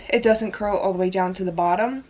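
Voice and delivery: slightly winded, breathy talk; out of breath. Real, not acted. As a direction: talk while a bit out of breath. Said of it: "I don't know why I'm out of breath".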